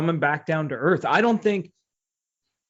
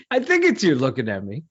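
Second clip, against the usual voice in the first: mock tough-guy challenge; Robert De Niro. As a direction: lightly imitate a movie wise guy. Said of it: "Think of, like, Robert De Niro".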